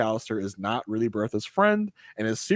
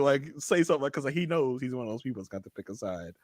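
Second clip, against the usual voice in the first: ordinary talk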